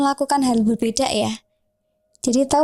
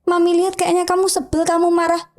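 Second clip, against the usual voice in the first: understanding mother; 5 semitones higher than usual. Acted. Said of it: "belum ngomong aja".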